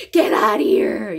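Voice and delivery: loud "Get out of here!" run together; playful loud retort; mock disbelief. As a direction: shout back at the friend in disbelief. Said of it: "이렇게 말하는 거예요".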